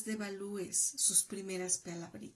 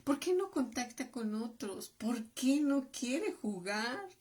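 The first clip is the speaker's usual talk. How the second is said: worried parent; 5 semitones higher than usual. Retold or imitated. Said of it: "cuando tú te preguntes".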